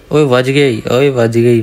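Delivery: ओए बज गई shouted in glee; excited cheer. Real, not acted. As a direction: celebrate the lucky kill. Lucky kill from a blind shot.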